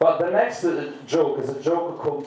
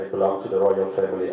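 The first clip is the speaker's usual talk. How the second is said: mock royal claim; 4 semitones lower, much faster than usual. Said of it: "simulate this funnier, uh, Italian accent".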